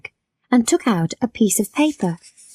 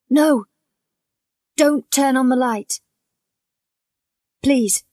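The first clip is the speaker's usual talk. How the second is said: frightened plea; 5 semitones higher than usual. Acted. Man on bed begs in dark.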